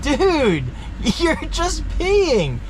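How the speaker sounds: high, slow, laughing disbelief; mock scolding through a laugh. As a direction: drag it out in amused disbelief. Mocking urinal groaners.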